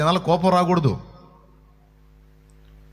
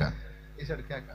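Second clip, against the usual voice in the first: వేశాడు కేక dropped much softer and slowed right down; slow hushed repeat; 2 semitones lower, 15 dB quieter, much slower than usual. Shown as a demonstration. Preacher repeating to the congregation, softly and slowly. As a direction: let వేశాడు కేక fall away quietly and slowly.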